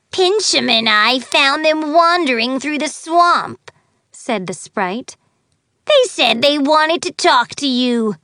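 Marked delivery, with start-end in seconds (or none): 0.1-3.7 high, loud little sprite. Acted. Sprite reports to the fairy. 5.9-8.2 high, loud little sprite. Acted. Sprite reports to the fairy.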